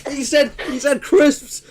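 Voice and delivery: high, slow, loud celebration; mock triumph. Streamer celebrating someone saying crisps, mock triumphant crow. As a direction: crow it with the words stretched out.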